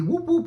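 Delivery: quick siren whoops; imitated police siren. Storyteller recapping officer lighting up their car, siren whoops. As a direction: mimic a squad car's whoop mid-story.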